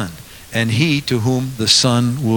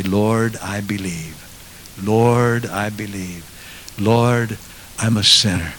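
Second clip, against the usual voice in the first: humble prayer; 3 semitones lower, slower than usual. Acted. Humble believer's prayer voiced.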